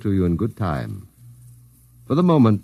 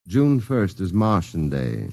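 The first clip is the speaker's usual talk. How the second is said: ad slogan read; slower than usual. Acted. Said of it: "The next ad will read".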